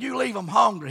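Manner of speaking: put-on South Carolina accent. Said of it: "He's from South Carolina".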